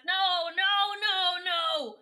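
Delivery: high, loud shouted no; desperate no. Retold or imitated. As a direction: cry out in protest, high and loud. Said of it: "Ava's just like".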